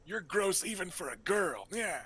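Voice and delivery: high raspy evil villain; Skeletor voice. Pretend. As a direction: cackle it out like a cartoon villain. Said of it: "Why does he sound like Skeletor".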